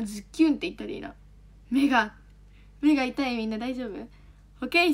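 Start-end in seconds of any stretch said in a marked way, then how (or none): 0.0-1.1 ズッキューン rattled off fast in a quick aside; quick throwaway. Shown as a demonstration. Streamer quickly trying out ズッキューン for the chat, rattled off fast. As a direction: toss off ズッキューン quickly with a light accent on キ.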